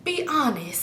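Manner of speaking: soft, slow tipsy happy voice. Real, not acted. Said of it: "I'm drunk, so this is me just happy".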